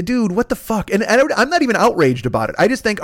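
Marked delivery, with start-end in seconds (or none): 0.1-0.9 amused disbelief. Retold or imitated. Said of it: "I laughed out loud".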